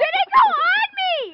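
high, slow alarmed cry after hairspray; sprayed with hairspray. Real, not acted. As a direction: draw it out, still alarmed by the hairspray. Don't spray me.

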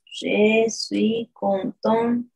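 slow, "contente" with the final T clearly sounded; slow careful French. Shown as a demonstration. Teacher correcting a student's Facebook answer slowly. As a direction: say "je suis contente" slowly, T on the end. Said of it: "Atención ahí".

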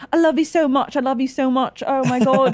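lightly imitated gushy reality star; gushing contestant. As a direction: play a fake-sweet UK contestant. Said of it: "they're like".

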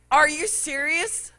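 high, whiny disbelief; baby fit. Retold or imitated. Preacher mimicking his own tantrum at the counter, whiny. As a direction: throw a little tantrum. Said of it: "having my little baby fit".

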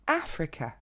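Africa accentué sur le A, finale « que » à peine audible; prononciation anglaise. Shown as a demonstration. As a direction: dis Africa à l'anglaise : A-fre-que. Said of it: "C'est vraiment le son E". (Africa, A fort et voyelles suivantes réduites)

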